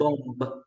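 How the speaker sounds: bomb with the final B sounded, "bom-b"; wrong pronunciation. Shown as a demonstration. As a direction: release a clear B at the end of bomb. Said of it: "We never say bomb".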